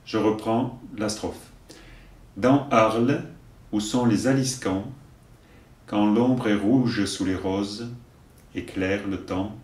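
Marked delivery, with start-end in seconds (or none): 2.4-9.6 poem recitation. Acted. Teacher giving verses for learners to repeat, measured recitation. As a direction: recite line by line, leaving room to repeat.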